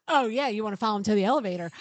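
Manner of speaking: fast, loud, laughing tease; mock him egging her on; teasing husband.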